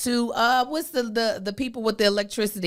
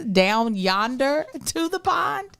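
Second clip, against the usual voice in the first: put-on Southern accent; slower than usual. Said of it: "Is that what you think their slang is?".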